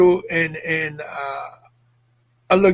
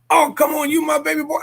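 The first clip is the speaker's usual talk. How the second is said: father's exasperated reply; 9 semitones higher than usual. Retold or imitated. Father's reply, shouted high.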